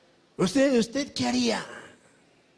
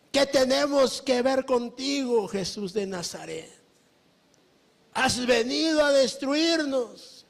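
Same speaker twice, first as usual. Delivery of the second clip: quarrelsome demons; 5 semitones higher than usual. Acted. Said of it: "Buscan contender".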